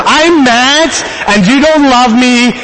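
retold outburst of a fed-up parent. Angry dad telling his kids off in the car, passionate. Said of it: "say it a little more passionate".

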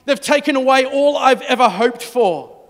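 loud, high, indignant protest; exasperated outburst. Acted. Mary snapping at the angels, loud and indignant. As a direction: fire it back at them, fed up. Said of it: "imagined herself knocking them out".

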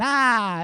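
high imitated "ah" of laughter; mock laugh. Pastor mimicking viewers laughing at comedies, mock laugh. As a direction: put on a high, fake laugh. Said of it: "You laugh and".

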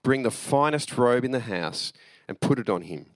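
steady, measured Bible reading; scripture reading. A narrator's reading. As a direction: read the parable clearly to the congregation. Pastor reads the parable aloud.

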